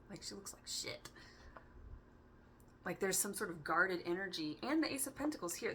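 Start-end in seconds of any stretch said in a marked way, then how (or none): 0.1-1.1 laughing whisper. Real, not acted. Laughing aside about card.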